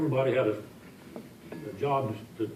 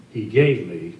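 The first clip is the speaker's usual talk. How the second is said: "gave" leaned on, a bit louder than the rest; stress on GAVE; 3 semitones lower, 6 dB louder, slower than usual. Shown as a demonstration. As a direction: hit the word "gave" with dry irony. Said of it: "and I emphasize the word gave".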